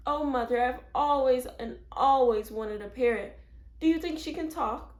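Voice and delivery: put-on high, loud, eager little girl; thrilled to get a parrot; squealing with joy at a parrot; delighted child. A narrator's reading. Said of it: "Mary was delighted with Penelope".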